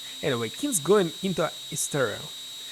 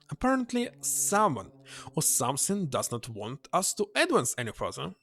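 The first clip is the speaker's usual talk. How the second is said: Mitchell explaining. Acted. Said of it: "Mitchell says".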